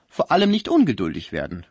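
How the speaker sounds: loud, firm admonishing carer; bossy nurse figure. Acted. Concierge admonishes the sick man, firm and loud. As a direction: press the point on an impatient patient.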